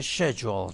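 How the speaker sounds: schedule with SH in place of SK; British pronunciation. Shown as a demonstration. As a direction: pronounce schedule SHED-jool as in England. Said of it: "بیشتر جاهای انگلستان".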